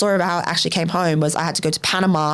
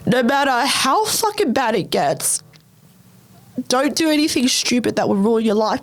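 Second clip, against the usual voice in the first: emotional; 3 semitones higher than usual. Real, not acted. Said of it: "I'm getting emotional".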